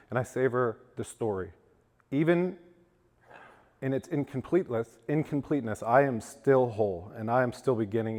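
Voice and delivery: earnest poetry reading to a recovery crowd; poem reading. Acted. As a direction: read it like a heartfelt poem, letting words land. Reads his own poem aloud.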